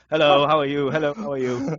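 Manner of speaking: lightly put-on posh accent; polite, hammed-up posh hello; pretend posh accent. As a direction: greet them in a mock-posh accent. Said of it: "my accent when I'm pretending to be posh".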